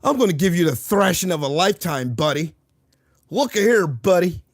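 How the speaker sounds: lightly mocked tough guy; mock a Canadian trying to sound menacing; a hint of hammed-up threat; Canadian acting tough. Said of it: "Canadian acting tough".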